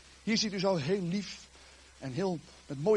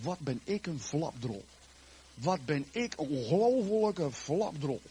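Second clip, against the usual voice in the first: slow, lightly acted lament; mock tearful self-reproach; 2 semitones lower, slower than usual. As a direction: berate yourself slowly, as if in tears. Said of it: "toen barstte hij in tranen uit".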